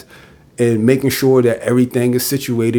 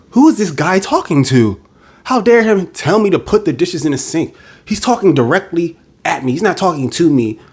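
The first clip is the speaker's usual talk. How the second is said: higher, indignant woman's voice, lightly played; offended woman; 5 semitones higher than usual. Woman bristling at a man's blunt order, mildly mocking. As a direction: act out her offense at his tone.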